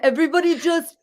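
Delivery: high, laughing Arnold line. Retold or imitated. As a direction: giggle through the quote. Quoting Mister Freeze, laughing.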